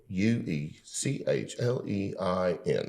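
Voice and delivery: slow, spelled-out customer service voice. Shown as a demonstration. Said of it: "my talking back to customer service voice".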